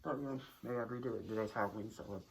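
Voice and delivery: speaking through a costume mask; muffled voice behind a mask. Real, not acted. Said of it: "my voice is muffled 'cause of the mask".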